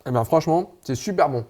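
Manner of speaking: talking with a mouthful; mouth full. Real, not acted. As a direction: speak through a bite of food. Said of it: "Je parle la bouche, euh, pleine".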